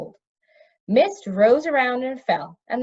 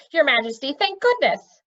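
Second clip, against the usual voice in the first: heartfelt relief; 5 semitones higher, 4 dB louder than usual. A narrator's reading. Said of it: "in tones of heartfelt relief".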